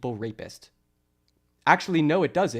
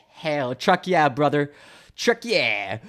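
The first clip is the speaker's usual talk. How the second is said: lightly hammed-up hick cheer, loud; mock gung-ho hick; 5 dB louder, slower than usual. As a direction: imitate a gung-ho good ol' boy, drawn out. Mimics Michael as a hick enthusiast.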